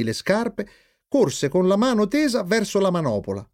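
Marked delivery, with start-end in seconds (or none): none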